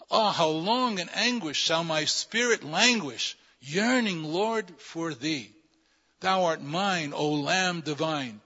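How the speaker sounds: slow, drawn-out devotional verse; stately hymn reading with lingering phrase ends; hymn verse recitation. Acted. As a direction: recite it as a prayer-poem, stretching the key words. Reads hymn verse aloud.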